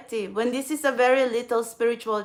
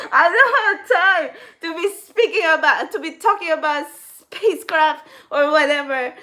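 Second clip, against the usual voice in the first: higher and louder, the mock brush-off breaking into laughter; real laughter over a mock irritated quote; laughing through the quote; 5 semitones higher, 5 dB louder than usual. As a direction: repeat his line while cracking up. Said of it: "now he's going to be saying".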